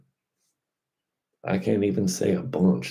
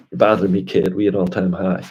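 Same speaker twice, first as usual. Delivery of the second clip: louder, brushing-off put-down; mock dismissive voice; 5 dB louder than usual. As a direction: wave off a pest, loudly. Voices Bitcoin brushing off critics.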